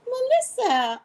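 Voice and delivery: loud, very high shout of a name; excited calling out. Real, not acted. Calling out excitedly to arriving guest.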